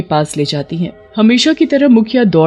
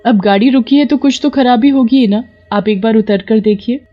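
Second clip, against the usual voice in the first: higher-pitched, mildly prodding wife; wife character; 5 semitones higher than usual. Acted. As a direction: nudge your husband to go check. (पति को टोकती पत्नी की ऊँची आवाज़)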